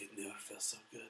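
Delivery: soft, put-on Mexican accent; mock Mexican accent. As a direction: murmur it in a fake Mexican accent. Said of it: "he didn't have that accent".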